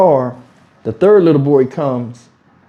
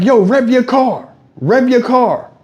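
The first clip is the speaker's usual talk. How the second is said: put-on a bit higher, slower kid request; lightly voiced eager kid; imitating kids; 6 semitones higher, slower than usual. Kids at the car window begging, lightly voiced kid. Kids asking him to rev.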